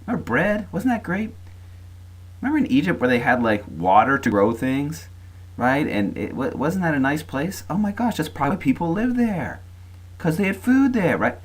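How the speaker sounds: very high-pitched wistful complaint; mock grumbling. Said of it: "they start grumbling".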